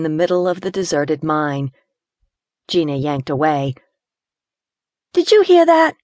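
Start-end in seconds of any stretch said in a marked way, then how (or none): 5.1-5.9 high, loud and alert; startled alarm. Acted. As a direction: snap the question at a sudden sound. Gina startled by a noise.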